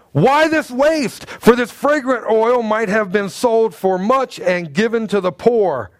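high, slow outraged reading; indignant. Retold or imitated. Preacher reading the disciples' indignant complaint, high and slow. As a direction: let the scandal of waste ring out slowly. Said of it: "they were indignant".

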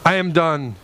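slow, worn-out sigh of defeat; weary giving up. Retold or imitated. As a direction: say it like you've had enough. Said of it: "there are times where I have went".

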